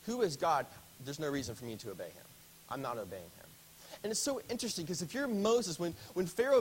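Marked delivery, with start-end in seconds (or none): 0.1-3.5 a scornful brush-off, no real question; defiant rhetorical dismissal; dismissive statement. Shown as a demonstration. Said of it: "He's making a statement".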